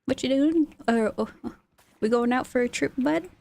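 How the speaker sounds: playful imitation of Letterkenny-style Canadian speech; Canadian accent. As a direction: toss off a hint of small-town Canadian. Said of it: "I myself have watched Letterkenny".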